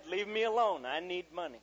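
loud mock snap back; imitating a defiant daughter; retold defiant child. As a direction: fire it back loudly, like a cross kid.

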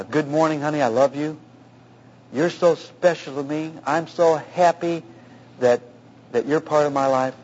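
gentle, unhurried endearment with pauses; tender affection. Shown as a demonstration. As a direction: model a loving husband's morning words. Demonstrates loving words to a wife.

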